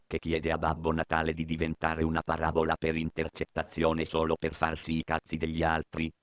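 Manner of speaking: low cruel dictator voice; a mocking tyrant, low; deep villain voice.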